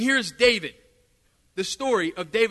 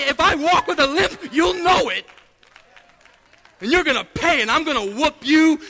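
defiant threat to devil; 2 semitones higher than usual. Retold or imitated. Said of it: "I said, I said".

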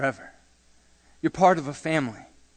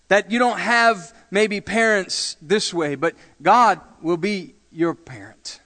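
rising, louder preacher build; preaching; 5 semitones higher, 6 dB louder than usual. Acted. Pastor assuring orphans God provides, louder preaching. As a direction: proclaim it to the congregation.

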